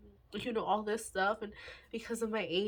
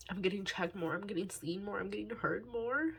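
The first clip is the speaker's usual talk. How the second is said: real tearful gratitude, rising at the end; holding back tears. Real, not acted. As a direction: say it thankfully through welling tears. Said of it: "Let me stop the waterworks".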